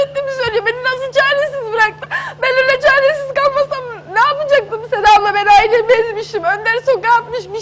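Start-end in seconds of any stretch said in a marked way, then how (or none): 2.4-5.3 crying. Real, not acted. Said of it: "Bugün ağlamak istemiyordum".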